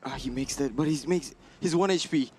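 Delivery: rising excited shouting. Real, not acted. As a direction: yell it as the tension climbs. Tense final fight, caster yelling.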